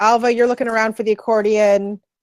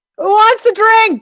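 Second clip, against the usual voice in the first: put-on very high, drunken calling voice; 12 semitones higher, 4 dB louder than usual. Voicing a drunk Vistani who stumbles over offering drinks: drunk voice. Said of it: "one of the drunk, uh, Vistani".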